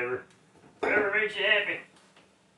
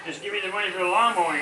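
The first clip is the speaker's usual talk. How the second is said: repeated louder; 2 semitones higher, faster than usual. Real, not acted.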